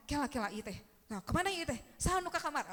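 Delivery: panicky search. Acted. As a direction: play someone flustered rummaging for a lost thing. Acting out panicked search for lost item.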